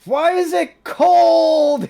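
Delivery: long drawn-out, very high yell; slow, high-pitched startled shriek; high shout. Acted. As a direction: wail it out loudly in shock. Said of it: "he shouts".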